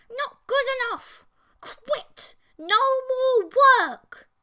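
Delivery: very high, very loud monstrous snarl; a creature girlfriend snarling at her boyfriend; growled. Acted. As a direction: roar it out like a furious monster. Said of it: "She bared her teeth at me and growled".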